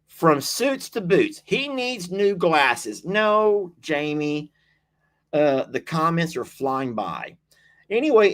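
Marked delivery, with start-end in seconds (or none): 0.1-3.0 reading comment aloud. Retold or imitated. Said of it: "I think that might be her".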